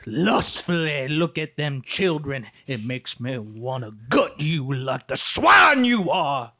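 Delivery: slow, low, damning sermon; menacing preacher. Pretend. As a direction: condemn them like a hellfire preacher. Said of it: "say something bad about pedophiles now".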